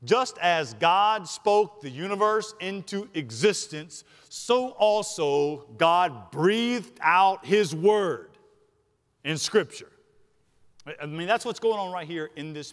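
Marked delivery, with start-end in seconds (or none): 0.0-9.9 slow, deliberate preacher's cadence; emphatic preaching. Real, not acted. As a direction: weigh each phrase, pausing between them.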